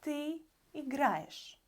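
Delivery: ты играешь, unstressed ending said as a quick ish; Russian demo. Shown as a demonstration. Teacher modelling ты играешь for the students. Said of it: "You play".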